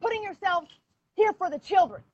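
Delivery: high-pitched, emphatic reproach; heated insistence. Real, not acted. Mother holding officials responsible for the children, heated insistence. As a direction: press each point with urgent indignation.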